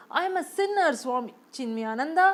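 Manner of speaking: a rich man begging the guru to save him; desperate sinner. Acted. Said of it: "he repeated".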